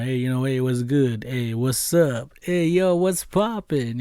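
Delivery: laid-back street greetings, slowing on "what's poppin'"; casual slang greeting. Retold or imitated. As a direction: play it cool with slang. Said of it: "I know the slang now".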